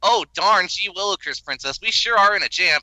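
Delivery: mock a clueless cartoon hero, all gee-whiz; goofy and cheerful. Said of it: "smash cut to Karan going".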